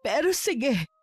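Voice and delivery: mother talking through tears; tearful reassurance to a child. Acted. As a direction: hold back the crying as you answer. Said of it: "Wag na po kayong umiyak".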